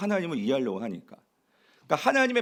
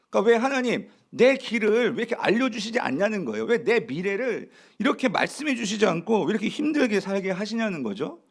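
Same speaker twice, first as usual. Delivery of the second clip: acted reproach, pitched higher; arguing with God; 4 semitones higher than usual. Israel asking God why the path is hidden, reproachful. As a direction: demand answers like an aggrieved believer. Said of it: "지금 이걸 따지고 있는 거예요".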